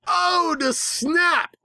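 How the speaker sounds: very high, shocked drawn-out oh; mock surprise. A narrator's reading. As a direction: gasp it like a gossip. Mock gasp at villain.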